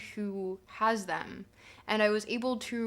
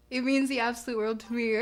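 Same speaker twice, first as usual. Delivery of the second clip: whispered heartfelt thanks; sincere whisper; faster than usual. Real, not acted.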